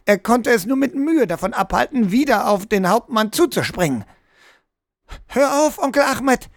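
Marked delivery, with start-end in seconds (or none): 5.3-6.5 put-on high child's voice calling out; helle Mädchenstimme. A narrator's reading. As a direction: call out in a bright, high girl's voice. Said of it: "erklang eine helle Stimme". (mit heller, hoher Kinderstimme rufend)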